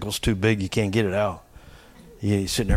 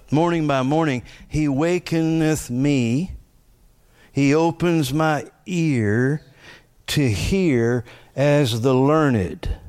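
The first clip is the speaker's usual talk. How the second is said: slow scripture reading; slower than usual. Real, not acted. Reciting scripture slowly.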